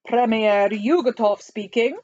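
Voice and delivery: put-on slow, lightly Russian-accented voice; measured Russian phone voice; Russian premier. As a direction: answer slowly as a Soviet premier with a Russian accent. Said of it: "said the voice from Moscow".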